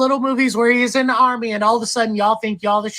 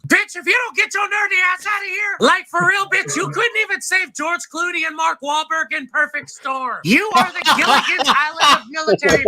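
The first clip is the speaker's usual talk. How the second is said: mock yelling; 5 semitones higher than usual. Trash talk between branches.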